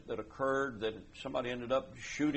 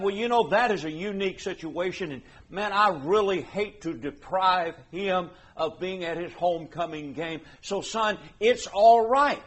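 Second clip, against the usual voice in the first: louder, coaxing parent letting son off; excusing parent; 3 semitones higher, 5 dB louder than usual. Acted. Parent telling son missing worship is okay. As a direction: talk yourself into an exception.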